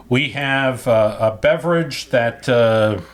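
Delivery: carrying too loud, like at a ballpark. Real, not acted. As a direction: voice booming into the mic. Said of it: "Why are you yelling so?".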